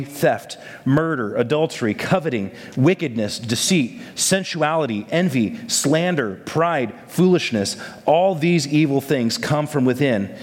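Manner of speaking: measured, formal Bible reading; scripture reading. Acted. Pastor reading scripture to his church, measured and formal. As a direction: read the passage steadily to the congregation. Reads scripture aloud before sermon.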